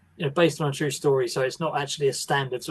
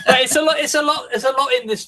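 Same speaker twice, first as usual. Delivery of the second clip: laughing; 10 semitones higher, 5 dB louder than usual. Real, not acted. Laughing reply to co-host's teasing.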